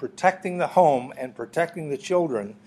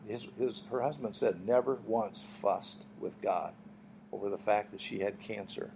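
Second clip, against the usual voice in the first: hushed tender tribute; 3 semitones lower, 5 dB quieter than usual. Real, not acted. Tender tribute to a dying woman.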